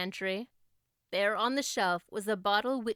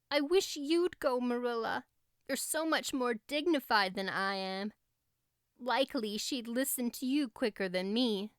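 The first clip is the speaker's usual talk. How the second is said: put-on Anne pleading, girlish; 3 semitones higher than usual.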